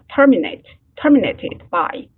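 terminate, terminated, both with TER stressed; stress on first syllable. Shown as a demonstration. Teacher has class note the verb, TER stressed in terminate. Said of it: "大家也注意一下".

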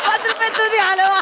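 laughing fit. Acted. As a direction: repeat the punchline, cracking up. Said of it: "तुला पुन्हा हसायला येतंय?".

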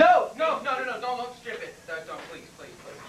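quick high begging that fades to almost nothing; man begging the officer not to stamp his forms; panicked pleading. Acted. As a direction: plead in a rush, trailing off.

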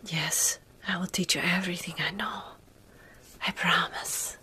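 ordinary talk, nothing marked

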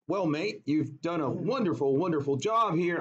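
put-on half-hearted English accent; badly faked English accent; failed English accent. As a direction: attempt an English boss and miss. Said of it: "I can't do an English accent".

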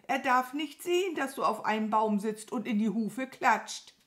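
high, agitated crow warning; urgent calling. A narrator's reading. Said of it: "rief die Krähe". (aufgeregt und hoch mahnen)

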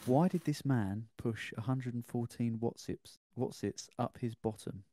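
slow, deadpan headline read. Acted. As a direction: read the headline out slowly, like a news item. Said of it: "So the headline is".

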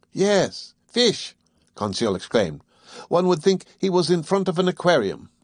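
high, delighted outburst; excited Conseil. Acted. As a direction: burst out at the sight of fish. Conseil exclaims at the fish.

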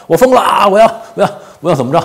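high, loud mocking voice; mock crazy rant. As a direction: ham up a ranting madman. Mock unhinged quote from edited clip.

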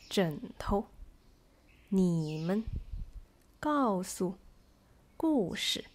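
full first syllable, light second, as in 东西; stressed then light. Shown as a demonstration. Teacher has learners follow along, first syllable stressed, second light. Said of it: "first syllable is stressed and the second is light".

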